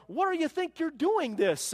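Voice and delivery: high, loud mock scolding. Neighbor scolding a cruel teenage boy, mock scolding. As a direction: scold him like a stern neighbor. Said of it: "And she scolded him".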